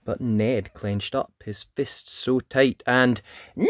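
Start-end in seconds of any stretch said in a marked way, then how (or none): 3.6-3.7 huge, long bellowed no; defiant yell. A narrator's reading. Clenched-fisted Ned facing the dragon, long defiant yell. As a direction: yell it for as long as breath allows. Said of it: "yelled Ned".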